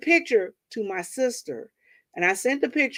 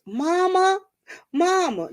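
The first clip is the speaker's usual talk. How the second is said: higher calling mama; higher mock calling; sister pleading; 10 semitones higher, slower than usual. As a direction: call out to mom. Sister calling her mother.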